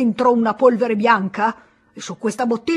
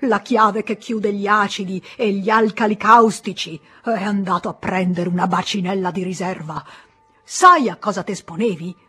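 angry scolding; 3 semitones higher, 6 dB louder than usual. Acted. Pharmacist furious at the boy for entering the storeroom, loud angry scolding. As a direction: tear into the careless boy.

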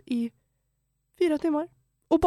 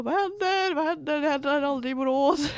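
baffled disbelief; 3 semitones higher than usual. Retold or imitated. Shocked at police wrestling woman.

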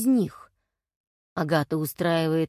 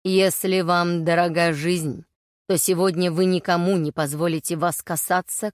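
prophetic trance voice. Acted. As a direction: speak the prophecy firmly. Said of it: "а голос стал жёстче".

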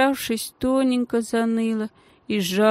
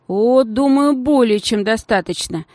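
caustic remark; 4 semitones higher, 4 dB louder than usual. Acted. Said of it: "едко заметила Геля".

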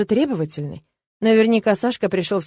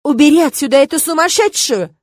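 loud, higher outraged quote; mock indignant yell; 6 semitones higher, 7 dB louder than usual. A narrator's reading. Irma mimics the ungrateful patient, loud indignant yell. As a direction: throw up your hands and yell it. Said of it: "всплеснула руками девушка".

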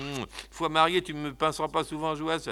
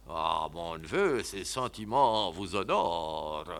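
put-on deaf old uncle; 9 semitones lower, 4 dB quieter, slower than usual. Deaf uncle answers beside the point.

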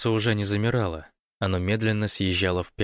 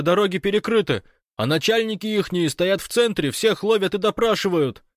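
high, loud breathless report; excited Fyodor on the phone; 11 semitones higher, 5 dB louder than usual. Acted. Fyodor reporting the invasion to Gosh by phone, excited. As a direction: rattle it off, caught up in the drama.

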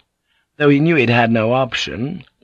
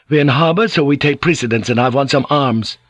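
pushy, mildly raised demand; truculent; 5 semitones higher than usual. Acted. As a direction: insist on rank and weapons. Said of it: "Jan Roper said truculently".

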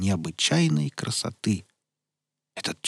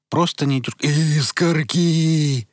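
loud, drawn-out joyful cry; happy childlike cry; 6 semitones higher, 6 dB louder, much slower than usual. Acted. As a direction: sing out the word happily. Veles interrupts joyfully.

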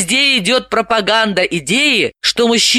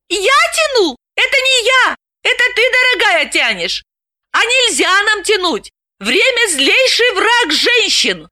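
indignant amazed cry, pitched very high; astonished exclaim. A narrator's reading. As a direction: flip the blame back, startled. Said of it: "изумлённо воскликнула". (изумлённо, возмущённо)

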